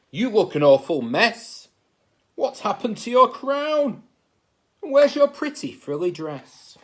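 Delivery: loud, indignant royal scold; scolding king. Acted. King berating niece about her messy dress, loudly. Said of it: "he thundered".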